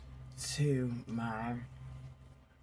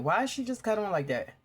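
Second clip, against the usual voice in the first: startled; 7 semitones higher than usual. Real, not acted. Startled by phone voice.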